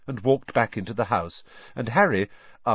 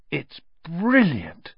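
happy; 7 semitones higher, slower than usual. Acted. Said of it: "said Harry happily".

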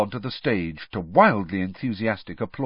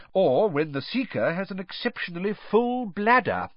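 put-on gentle, teasing old headmaster; twinkling mild teasing; amused old wizard; 9 semitones higher than usual. Dumbledore voiced in audiobook.

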